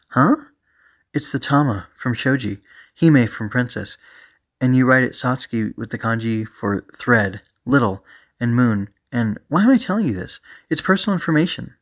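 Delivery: explaining, then a high indignant outburst; on edge. Acted. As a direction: catch yourself oversharing and get huffy. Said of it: "She really was on edge".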